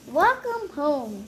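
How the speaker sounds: slow, tender welcome; a hint of a loving mother; warm greeting. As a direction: greet her gently. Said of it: "said her mother".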